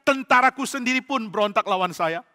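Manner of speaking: angry king ranting about betrayal. Acted. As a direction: vent his grievance at everyone. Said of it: "Saul makin marah".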